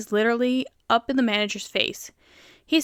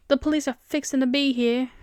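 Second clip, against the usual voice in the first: light southern drawn "fixin'", g dropped; southern accent; 3 semitones higher than usual. Shown as a demonstration. Reader whose southern is coming out, light southern accent. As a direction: let a bit of southern out on "fixin'". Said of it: "gonna bring out my southern".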